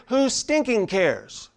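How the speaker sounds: slow "Who stinking cares?" stressing "stinking"; emphatic. Shown as a demonstration. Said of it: "it's emphatically written".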